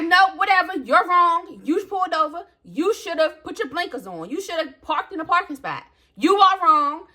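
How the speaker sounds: high, insistent telling him he's wrong; defiant retort. Retold or imitated. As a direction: hammer home that he's wrong. Retorting to man in street.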